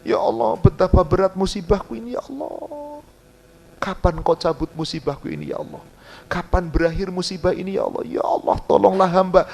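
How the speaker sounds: lamenting prayer. Acted. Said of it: "berkeluh kesah kepada Allah".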